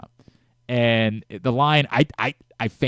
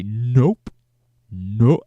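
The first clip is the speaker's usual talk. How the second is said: Jacoby's nope; 6 dB louder than usual. Retold or imitated. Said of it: "the number of times I heard him say".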